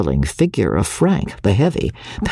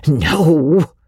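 shrieked; 5 semitones higher, 3 dB louder than usual. Acted. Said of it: "shrieked Parthy".

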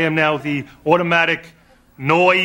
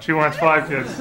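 glum; 2 semitones lower than usual. Real, not acted. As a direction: say it like bad news. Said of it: "This is the sad part".

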